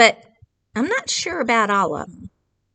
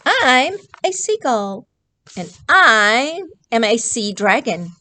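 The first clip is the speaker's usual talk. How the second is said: proud louder duo voice; both characters together; 3 semitones higher, 5 dB louder than usual. Acted. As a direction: announce who you really are. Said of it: "They both say".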